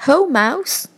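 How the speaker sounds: high bright greeting for a hare. A narrator's reading. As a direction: call out cheerily as the hare. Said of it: "says hare".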